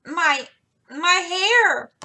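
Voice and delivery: high, loud, broken wail; bursting out. A narrator's reading. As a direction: blurt it out through tears. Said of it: "burst out poor Jo".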